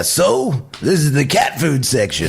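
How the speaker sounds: attempted character voice; Beetlejuice. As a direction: put on a questionable showman voice. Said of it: "What the fuck is that?".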